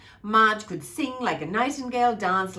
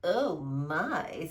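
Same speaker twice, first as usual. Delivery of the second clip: grumble and growl; 4 semitones lower than usual. Acted. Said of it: "with a grumble and a growl".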